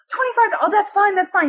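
put-on high, eager old-lady voice; old lady, agreeing. Old lady agreeing to the dog reward, high and eager. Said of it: "it's this old lady".

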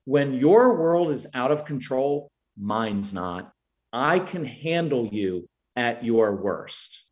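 low, slow and steady; steady reassurance. Shown as a demonstration. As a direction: reassure them you can handle it. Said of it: "what I'm communicating is".

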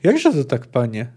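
mildly worried question, dropping at the end; a touch of baffled concern; troubled. Acted. Executioner questions the refusing poet, mildly troubled. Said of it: "zafrasował się Małodobry".

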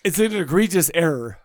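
talking through hiccups; hiccuping between words. Real, not acted. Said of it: "I had to hiccups".

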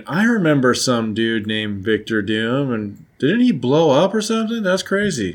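lightly acted puzzled reminiscing, pitch climbing; musing Reed. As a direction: play someone casually amazed by an old memory. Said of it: "like, Reed going".

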